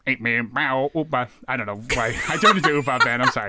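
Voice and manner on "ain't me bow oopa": garbled mock British accent; a badly faked British singer's accent; put-on British accent. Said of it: "It was something of a put on".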